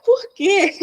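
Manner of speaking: high, drawn-out mock-tearful voice; imitated tearful mother. Mother calling the therapist five days later, imitated high and tearful. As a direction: imitate a mother crying down the phone.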